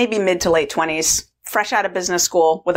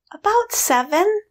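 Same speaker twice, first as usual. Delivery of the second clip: put-on high, questioning girlish guess; naive indulger; 13 semitones higher than usual. Young food indulger guessing the woman's age, naive. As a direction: pitch it up high, unsure and innocent.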